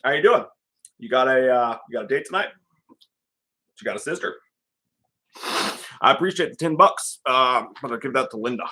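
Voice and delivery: halting small talk in character; loose, half-improvised character impression; Doctor Chalice. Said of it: "How do you even do Chalice".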